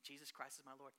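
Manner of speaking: soft, low insistent repetition; hushed exhortation; quiet firm urging. Retold or imitated. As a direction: press her gently to say it. Exhorting the girl softly.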